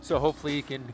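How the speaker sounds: muffled through a helmet; inside a helmet. Real, not acted. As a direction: helmet mic over wind. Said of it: "over the wind noise in my helmet".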